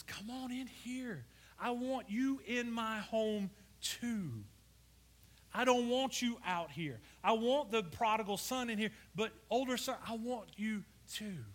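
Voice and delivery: slow, gentle begging; pleading father. Retold or imitated. Father pleading with his older son to come in. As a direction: coax the son inside tenderly. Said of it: "he begs and he pleads".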